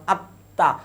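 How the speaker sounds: আত্মা said with a doubled t in place of "tm"; doubled consonant for ফলা. Shown as a demonstration. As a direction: say আত্মা as "atta", holding the t. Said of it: "ফলা থাকার কারণে কি দ্বিতীয় উচ্চারণ". (আত্মা-তে ত-এর দ্বিত্ব উচ্চারণ)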